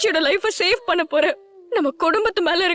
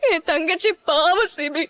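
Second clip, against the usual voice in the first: tearful. Acted. Distraught sister fears for sibling.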